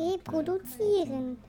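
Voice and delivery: "reproduzieren" stretched out very slowly; snail. Shown as a demonstration. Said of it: "am besten ganz langsam sprechen". ("reproduzieren" ganz langsam gedehnt)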